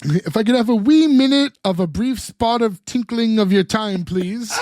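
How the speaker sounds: imitating a clumsy British accent, half-hearted; bad British accent. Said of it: "he just does a bad British accent".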